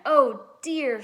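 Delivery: Judy frets as the snake uncoils; worried cry. A narrator's reading. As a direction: cry it out with worry. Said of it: "she cried".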